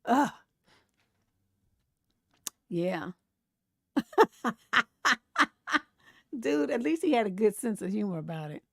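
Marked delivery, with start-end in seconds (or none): 3.9-4.8 loud burst of laughter; real laugh. Real, not acted. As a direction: crack up at it.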